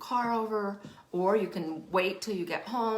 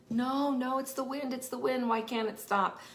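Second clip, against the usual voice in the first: imitating upset boy; 5 semitones higher than usual. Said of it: "he was really crying".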